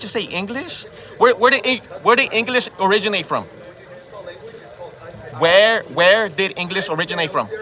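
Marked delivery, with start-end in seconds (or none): 5.4-7.5 slower, each word spaced out; slow pointed repeat. Real, not acted. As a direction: repeat the question slowly and pointedly. Repeated challenge in argument.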